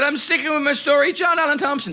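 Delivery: high, over-innocent lie to the cop; lightly put-on innocent voice; fake innocent. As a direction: sell the fake name sweetly. Sticking to the lie.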